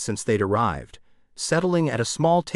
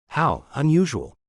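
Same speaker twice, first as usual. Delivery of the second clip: "unusual" leaned on, pitched up and pointed; stress on unusual; 4 semitones higher than usual. A narrator's reading. Old woman teasing the baker, weight on "unusual". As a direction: land hard on "unusual", a knowing jab. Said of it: "The emphasis she placed on the last word".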